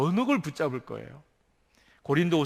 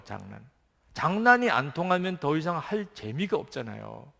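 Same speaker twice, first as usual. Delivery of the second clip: ordinary talk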